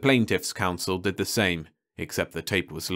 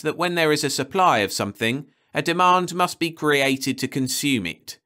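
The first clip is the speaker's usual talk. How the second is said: pompous judge; 6 semitones higher, 4 dB louder than usual. Acted. Judge character voice.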